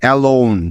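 alone with a long o glide, said slowly and clearly; demo pronunciation. Shown as a demonstration. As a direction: model the o in alone. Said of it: "যেমন দেখো". (উচ্চারণ দেখিয়ে alone)

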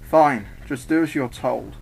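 slow, grudging consent; slow, resigned go-ahead; reluctant. Acted. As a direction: give in reluctantly, taking your time. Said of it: "who sighed reluctantly".

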